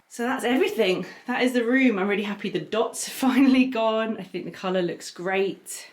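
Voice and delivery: breathless after walking around; talking while out of breath. Real, not acted. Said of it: "Sorry, I'm so out of breath".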